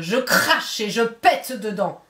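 lightly voiced wolf ordering the pig; wolf's demand. Wolf threatens at the door.

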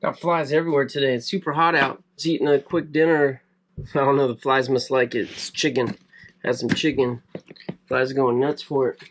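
ordinary delivery

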